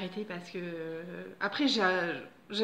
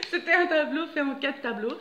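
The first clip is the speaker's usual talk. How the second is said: laughing; 5 semitones higher, 7 dB louder than usual. Real, not acted. Still laughing after the laugh.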